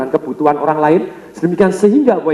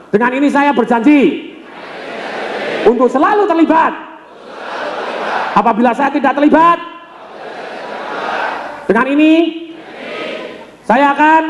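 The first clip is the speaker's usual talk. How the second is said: solemn pledge; 8 semitones higher than usual. Shown as a demonstration. Speaker leading audience pledge, mock-solemn oath. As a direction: lead the oath for the audience to repeat. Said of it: "sekarang semua janji".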